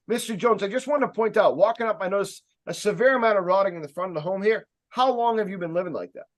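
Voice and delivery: firm sales pitch with intention; steady, projected rep's voice; speaking with authority. Shown as a demonstration. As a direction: point out a problem to a homeowner, assured. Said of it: "you're speaking with authority".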